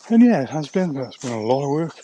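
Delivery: breathless after the climb; panting between words; out of breath. Real, not acted. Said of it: "I'm out of breath now".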